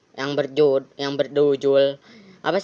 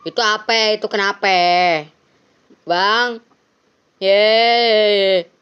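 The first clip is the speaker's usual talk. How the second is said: higher, louder alarmed calls; 5 semitones higher, 6 dB louder, slower than usual. Acted. Player voicing a startled scene, high excited calling. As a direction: call out as if spotting something wrong.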